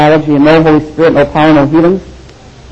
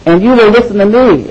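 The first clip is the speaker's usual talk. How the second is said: lion king; 4 semitones higher than usual. Pretend. Preacher voicing a proud lion, raised and bold. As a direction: announce yourself as king of the jungle. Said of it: "It says".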